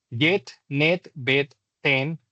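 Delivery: "jet, net, bet, ten" with a short, crisp English E; short E model words, slightly exaggerated; short E demo. Shown as a demonstration. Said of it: "la corta E".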